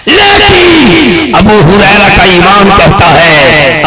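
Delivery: slow, drawn-out proclamation; impassioned preaching. Real, not acted. Preacher hailing Abu Huraira's faith to the crowd, slow proclamation. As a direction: proclaim it slowly, full of conviction.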